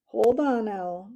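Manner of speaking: loud sudden call; shout. A narrator's reading. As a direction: stop the owl short. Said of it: "Matthias shouted".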